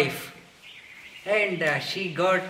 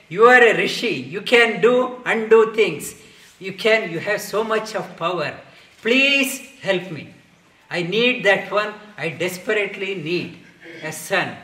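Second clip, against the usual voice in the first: desperate pleading; 3 semitones higher, 7 dB louder than usual. Retold or imitated. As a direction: beg the sage for a son. King begs the rishi for son.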